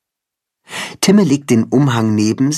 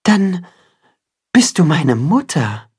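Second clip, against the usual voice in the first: raised, wondering chicken voice; little chicken voice; 7 semitones higher than usual. A narrator's reading. Chicken asking the cat, amazed. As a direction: ask in wide-eyed wonder.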